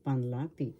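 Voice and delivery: "panlapi" said with the weight on "LA": pan-LA-pi; stress on second syllable. Shown as a demonstration. Teacher models "panlapi" for learners, stressing the middle syllable. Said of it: "The accent is in the second syllable".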